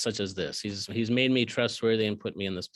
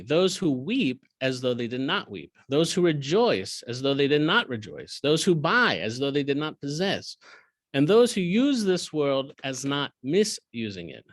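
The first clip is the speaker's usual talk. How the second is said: steady, slightly louder cadence; rhythmic scripture reading; 3 dB louder than usual. Acted. Teacher reading the verse list to his class, rhythmic. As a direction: read the parallel lines with rhythm.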